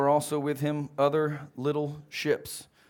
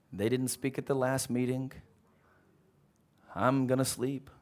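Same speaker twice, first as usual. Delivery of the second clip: relaxed Jesus; 2 semitones lower, 4 dB quieter than usual. Acted. Voicing relaxed sleepy Jesus.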